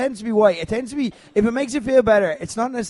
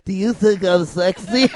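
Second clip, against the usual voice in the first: mock sexy. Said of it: "when she opened Low Blow saying".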